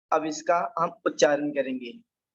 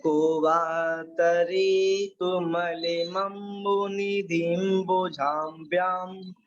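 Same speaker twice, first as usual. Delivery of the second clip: slow, measured chanting of a Sanskrit shloka; teacher intoning a shloka line by line; verse recitation; much slower than usual. Shown as a demonstration. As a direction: recite the verse slowly for the class to repeat.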